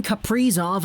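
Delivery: Kaprizov as ka-PREE-zov; middle-stressed Kaprizov; broadcast pronunciation. Retold or imitated. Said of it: "if I watch Minnesota Wild games".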